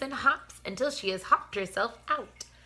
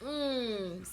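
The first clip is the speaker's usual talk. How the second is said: stretching yawn; 3 dB quieter than usual. Shown as a demonstration. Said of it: "a stretching yawn like an elephant".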